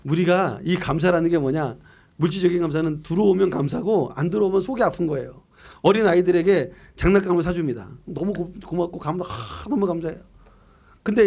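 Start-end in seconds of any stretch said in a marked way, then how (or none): none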